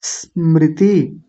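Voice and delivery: slow स्मृति with a long s into mriti; correct स्मृति. Shown as a demonstration. Teacher removing the wrong vowel, slow pure स्मृति. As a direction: drop the i and hiss into स्मृति. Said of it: "ई को हटाएंगे".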